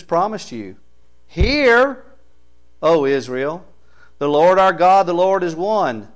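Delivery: emphatic scripture reading. Real, not acted. Preacher reading Hear O Israel to the church, proclaiming. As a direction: proclaim it in measured, punched phrases.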